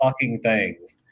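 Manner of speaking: ordinary talk, nothing marked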